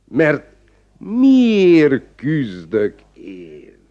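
low, very slow, solemn; pompous self-pity. Acted. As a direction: declaim your sacrifice. Magistrate's self-pitying speech.

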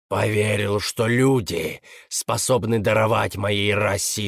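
bitter, contemptuous demon voice; a hint of a raging demon; metallic demon voice. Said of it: "страшный металлический голос".

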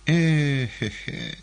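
slow drawn-out rueful heh-heh; pained, slow heh-heh; wincing sigh. A narrator's reading. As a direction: groan it while wincing. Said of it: "морщась".

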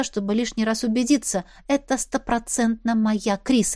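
ordinary delivery

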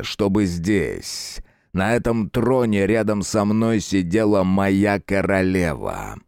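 cold sinister ruler; dark lord. Acted. Lord answers Thomas.

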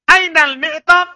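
"Ainal mi'tab" high on "Ainal", rising at the end; questioning tune. Shown as a demonstration. Teacher drilling the question, high rising "Ainal mi'tab". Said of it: "Itu bertanya".

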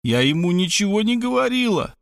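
lightly voiced soothing woman; reassuring. A narrator's reading. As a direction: reassure her in a lifted voice. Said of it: "успокоила её Мархалёва".

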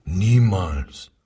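a loud, hard NIEMALS; sharp denial. Acted. Suspect loudly denying to the SS interrogator. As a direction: shut the accusation down flat. Suspect denies friendship with Jew.

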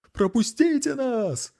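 gasping, high and slow plea; out of breath. Acted. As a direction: beg while gasping for air. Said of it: "задыхаясь и хватая ртом воздух". (запыхавшийся, задыхаясь)

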